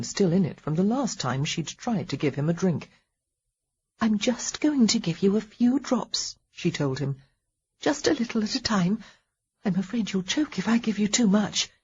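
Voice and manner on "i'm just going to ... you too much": lightly voiced wife, gentle and coaxing; a hint of a nurse's encouragement; caring wife. Wife feeding husband water.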